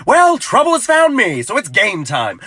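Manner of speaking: brace for a fight; dramatic resolve. Retold or imitated. Spotting the angry driver, mock tough and slow. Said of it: "I was like".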